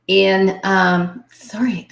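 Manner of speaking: throat catching after coughing; struggling through a tickle in the throat; choking up. Real, not acted. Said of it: "I'm kinda choking up here".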